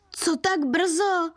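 mock call out. A narrator's reading. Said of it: "zahalikal na mě zkukaně".

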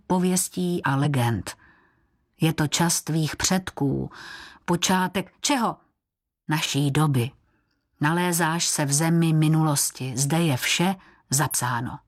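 usual speaking voice

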